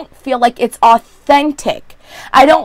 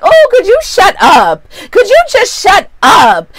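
annoyed; 9 semitones higher, 4 dB louder than usual. Retold or imitated. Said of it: "And I was just like".

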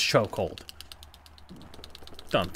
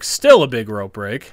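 indignant, pushed louder; louder protest; 7 dB louder than usual. Real, not acted. Gamer protesting to the game, louder. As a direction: insist it to the screen.

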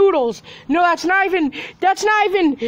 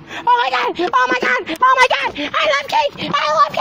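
excited squeal; 7 semitones higher, faster than usual. Acted. Toy still cheering over cake.

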